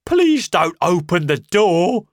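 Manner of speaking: high, loud desperate plea; frantic pleading. Acted. Marvel begging the American, frantic. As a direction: beg him not to. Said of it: "said Marvel".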